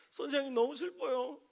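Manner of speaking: high, loud retold crying plea; mock tearful wail. Preacher voices pupils crying to their teacher, mock tearful wail. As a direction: imitate weeping pupils wailing to their teacher. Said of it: "애들도 막 울고".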